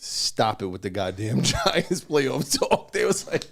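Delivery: mock-exasperated, rising in pitch midway; exasperated quote. Recounting social media posts on Giants playoff talk, exasperated. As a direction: imitate fed-up posters, laughing a little. Reads out fed-up posts, acted.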